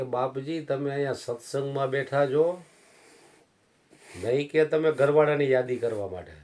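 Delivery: loud, high rebuke from the saint; stern scolding. Acted. Saint rebuking the old devotee, high and loud. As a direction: thunder at him for clinging to his wife.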